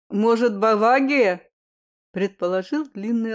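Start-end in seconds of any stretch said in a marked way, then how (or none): 0.1-1.5 louder, "Бавагия" with a burred r; says w for r. Acted. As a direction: burr the r in "Бавагия". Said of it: "картавя подхватил второй".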